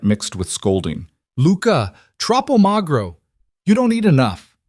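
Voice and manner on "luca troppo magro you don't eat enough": high, loud, doting scold in an Italian mama voice. Acted. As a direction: fuss over him like a scolding Italian grandmother. Italian matriarch scolds Luca fondly.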